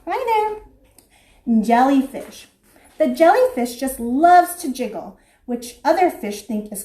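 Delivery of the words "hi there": vain angelfish. Acted. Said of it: "She's, like, saying".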